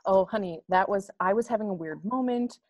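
soft, placating mom voice; smooth it over gently with the kid; soothing apology. Pretend. Soothing the child after snapping.

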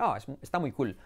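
"cool" as Spanish "cul"; pronunciación española. Shown as a demonstration. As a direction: say "cool" casually with a light l. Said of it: "en español puedes decir". ("cool" a la española, «cul»)

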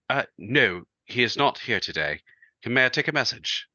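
lightly imitated British accent. Brother answering the home phone for a caller, imitated British accent. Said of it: "in his British accent".

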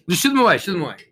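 real quick call to chase bees away; shooing bees. Real, not acted. Shooing bees during sermon.

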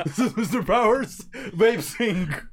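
slow, drawn-out sales greeting; call center voice. Pretend. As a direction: announce the company like a phone rep. Pretends to be call-center rep.

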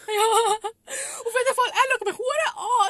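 slow, high and loud through laughter; laughing. Real, not acted. Retelling embarrassing moment, laughing.

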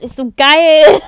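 bursting into loud laughter; laughing. Real, not acted. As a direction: laugh it out, delighted. Gleeful about spurting blood.

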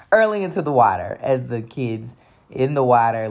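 hurling into the water said through a laugh. Retold or imitated. To the audience about being sick, laughing retelling.

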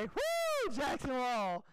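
little sister's starstruck squeal; excited squeal. Retold or imitated. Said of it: "she'd say".

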